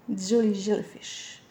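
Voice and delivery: self-mocking French-accented English, drawn out; slow English words in a homegrown French accent. Real, not acted. Reader joking about her super English accent, French-accented English. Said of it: "Avec mon super accent anglais".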